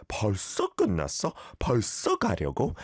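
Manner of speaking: casual 반말 ending: "벌써 끝났어?" and "벌써 가려고?" with no 요; informal speech. Shown as a demonstration. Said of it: "this is all 반말, informal talk".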